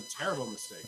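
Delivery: high falsetto. Acted. Mock dramatic agreement.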